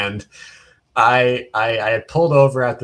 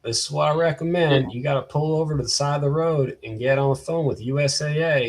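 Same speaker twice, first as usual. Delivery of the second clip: higher-pitched, lightly mocked Kentucky accent; bad Kentucky accent; 5 semitones higher than usual. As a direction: badly imitate a Kentucky finance manager giving advice. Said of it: "gonna do a bad, uh, accent impression".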